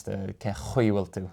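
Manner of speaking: "Cathal" with a broad, throaty ch; the guttural Irish ch in "Cathal". Shown as a demonstration. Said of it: "like a broad C H sound".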